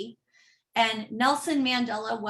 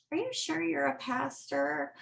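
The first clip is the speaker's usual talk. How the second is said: doubting hometown folks; 2 semitones higher, 7 dB quieter than usual. Retold or imitated. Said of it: "people are like".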